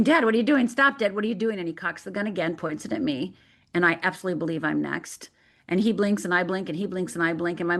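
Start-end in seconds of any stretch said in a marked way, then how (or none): 0.0-1.6 mild retold scream, quick and urgent; understated cry of alarm. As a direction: urgently plead with dad, half-raised voice. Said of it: "And I start screaming".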